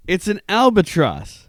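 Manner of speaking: put-on Aussie accent. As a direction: drawl it like an Aussie pilot. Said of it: "No, no, no".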